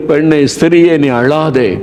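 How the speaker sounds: high-pitched, fervent plea not to weep; impassioned comforting. Acted. Jesus pleading with the weeping widow, fervently comforting. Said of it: "ஆறுதலான ஒரு வார்த்தை சொன்னார்".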